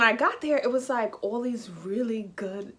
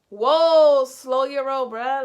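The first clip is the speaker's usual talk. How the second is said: loud, higher "whoa, back off"; taken aback; 4 semitones higher, 10 dB louder, much slower than usual. Retold or imitated. Woman calming an offended guy, taken aback. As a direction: tell him to ease up, opening loud. Retelling her reply to his offence.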